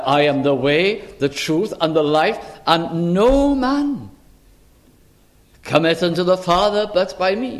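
lightly voiced authority, stretching "no man"; quoted with authority. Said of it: "with incredible authority".

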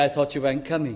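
anxious relief. Retold or imitated. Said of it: "You're so anxious".

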